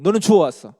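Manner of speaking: put-on loud, high blurt at the child; mother scolding. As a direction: snap it out like a fed-up mother. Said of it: "진짜 그렇게 이야기하는 거예요". (엄마가 아이에게 높고 크게 쏘아붙이듯)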